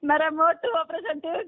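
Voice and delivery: real tears breaking through the words; weeping as she tells of her operation; crying. Real, not acted. Caller crying to helpline man about her surgery, tearful. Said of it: "એમાં રોવા ન હોય બેન".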